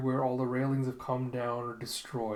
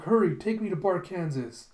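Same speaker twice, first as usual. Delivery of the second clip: higher, louder hurried demand; urgent plea; 6 semitones higher, 5 dB louder than usual. Retold or imitated. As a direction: order a driver to rush. Acted urgent plea to the driver.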